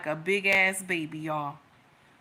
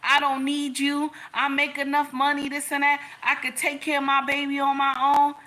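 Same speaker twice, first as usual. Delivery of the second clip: proud, challenging tone; mock tough-girl speech; defiant; 4 semitones higher than usual. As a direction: tell him off before he can speak. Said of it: "my king looked at me".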